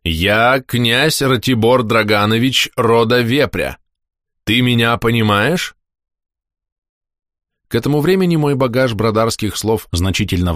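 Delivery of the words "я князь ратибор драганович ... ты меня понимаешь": slow, measured voice of a prince; slow stately prince. Acted. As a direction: speak like a proud prince, slowly. Prince speaks slowly, stately. (медленный величавый голос князя)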